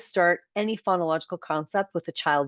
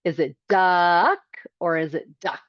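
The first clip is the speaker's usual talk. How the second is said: duck said two ways to compare; teacher's playful check; questioning the split duck; contrasting two ducks; 4 dB louder than usual. Shown as a demonstration. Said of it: "And you'll say".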